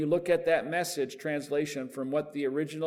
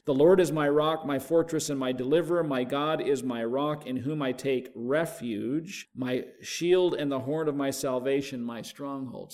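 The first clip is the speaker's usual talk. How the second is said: scripture reading; 3 dB louder than usual. Acted. Pastor reading the psalm to the class, measured and emphatic. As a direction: read it out like from the pulpit.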